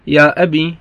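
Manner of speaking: يا أبي with a long held ī, ya abī; teacher says يا أبي ending in a long ee. Shown as a demonstration. Teacher shows his students the long-ī form, clear demo. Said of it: "بالياء".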